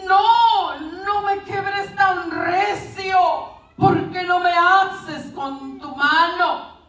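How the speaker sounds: high, drawn-out cry of protest; mock yelled protest. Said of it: "le gritó y le dijo".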